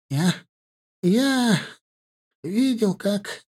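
put-on high, halting stammer of a scared old man. A narrator's reading. Old shepherd struggling to speak to warriors, frightened stammer. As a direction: stumble over each word in fear. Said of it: "борясь с собственным языком".

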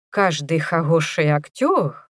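burred, lisping r in хороший and актёр; says w for r. Acted. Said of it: "прокартавил он".

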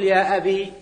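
أبي ending on a short i, "ya abi"; ya dropped. Shown as a demonstration. Teacher shows the vocative with the ya dropped. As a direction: clip the final ي of أبي to a short kasra. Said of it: "بحذف الياء والاكتفاء بالكسرة".

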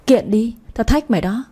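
sneering chuckle into a dare; scornful laugh. Acted. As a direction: laugh off the threat with contempt. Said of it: "Chị Châu cười khẩy". (cười khẩy thách thức)

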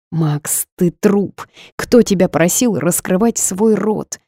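ordinary delivery

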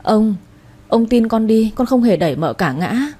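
a touch of tearful begging, "không" rising; crying plea. Acted. Servant girl on her knees begging the old master, tearful. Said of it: "quỳ sụp xuống khóc lóc nói".

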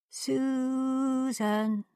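far-off, drawn-out call of a name; eerie distant voice through the storm. Acted. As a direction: call from far away in the wind.

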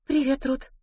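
high-pitched, bashful hello; shy greeting. Acted. Opal greets Ruth, embarrassed and high-voiced. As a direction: greet a little awkwardly. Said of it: "смущённо поздоровалась Опал".

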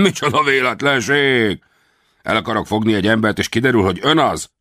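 high, hammed-up astonishment; staged surprise. A narrator's reading. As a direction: play the coincidence for the captives. Center acting surprised. (eljátszott meglepetés)

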